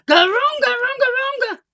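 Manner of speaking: loud, high monster chant; monster growl. Acted. Tommy scaring his friend Jeannie, loud monster chant. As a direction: jump out and scare her.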